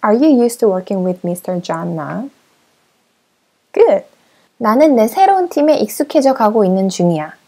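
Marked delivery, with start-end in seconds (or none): 0.0-2.3 very slow, clear model question; slow model sentence. Shown as a demonstration. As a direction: stretch each word so learners can follow. Teacher models the answer slowly.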